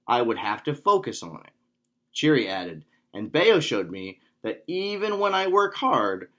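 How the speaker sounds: put-on measured, expressive read-aloud for kids; children's story narration. A narrator's reading. Instructor reads a Taekwondo tale to kids, storytime narration.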